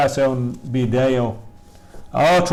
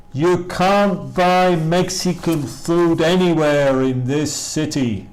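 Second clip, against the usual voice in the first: slow model reading; 4 semitones higher, 3 dB louder, slower than usual. Shown as a demonstration. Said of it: "teacher models the sentence slowly".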